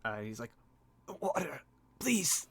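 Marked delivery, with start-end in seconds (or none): 1.2-2.5 higher, slow croaked plea; parched, choking plea. Acted. Man grasping his throat begs for water, parched. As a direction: beg through a dry throat. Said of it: "grasping his throat".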